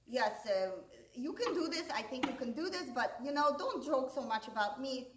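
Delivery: lightly imitated Russian-accented father; a touch of Russian accent, imitating dad. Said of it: "with a Russian accent".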